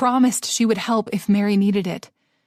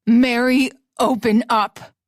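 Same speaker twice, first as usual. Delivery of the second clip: shout; 3 semitones higher, 4 dB louder, slower than usual. Acted. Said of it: "Nick started to shout".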